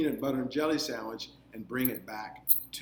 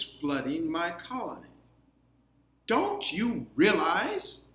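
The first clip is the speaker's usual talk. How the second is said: put-on high, loud, stern queen confronting the boy; queen's scolding voice; 5 semitones higher, 4 dB louder, slower than usual. A narrator's reading. Teacher voicing the ant queen, scolding Lucas. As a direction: tower over him as an offended queen.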